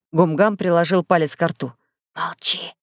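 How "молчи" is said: заметно тише, приглушённое «Молчи!»; тихо приказать молчать; тихо, приказом. A narrator's reading. Гумгам велит молчать. (приглушённо «Молчи!»)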